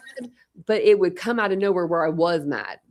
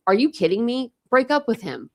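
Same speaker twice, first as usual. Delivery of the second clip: raised, louder mock disbelief; incredulous outburst; 5 semitones higher, 4 dB louder than usual. Friend retelling advice, raised incredulous voice. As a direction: scoff at the friend's boyfriend, loudly. Telling friend to dump boyfriend.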